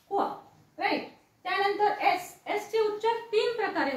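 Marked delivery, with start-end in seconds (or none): 0.1-0.2 क्व as one blended k-w sound. Shown as a demonstration. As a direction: sound out क्व alone for pupils. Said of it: "ज्याचा उच्चार क्व असा होतो".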